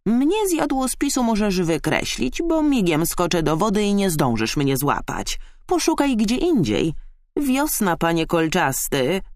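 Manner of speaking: high, teasing frog voice; cheerful frog. A narrator's reading. Frog warning the hedgehog off, merry high voice. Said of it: "zakumkała wesoło".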